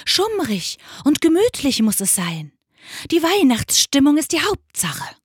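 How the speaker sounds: owl character, lifting in pitch and volume; insistent owl pronouncement. A narrator's reading. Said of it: "heulte die Eule".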